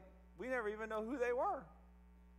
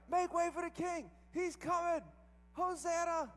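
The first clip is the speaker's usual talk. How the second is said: higher, louder excited proclamation; disciples shouting; 11 semitones higher, 4 dB louder, slower than usual. Retold or imitated. Disciples shouting ahead of Jesus on the road. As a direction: herald the king like a crowd. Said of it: "They kept yelling everywhere he went".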